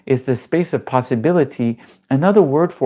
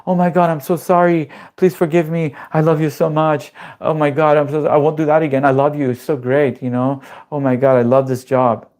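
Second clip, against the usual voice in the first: panicked fawning. Retold or imitated. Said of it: "you panic".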